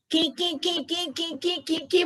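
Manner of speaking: squeaky high "की, की, की"; mock a shrill high-pitched speaker; high pitch demo. Shown as a demonstration. Guru mocks speakers who talk in a squeaky high pitch. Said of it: "high pitch में बोलने का कोई तरीका होता है?".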